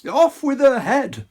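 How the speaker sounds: loud royal roar. Acted. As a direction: bellow the order. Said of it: "the prince roared back".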